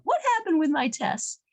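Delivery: high, pleading child's questions, mildly voiced; a touch of a scared boy begging his father; frightened pleading. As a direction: beg to be told the truth. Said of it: "begging and screaming and yelling".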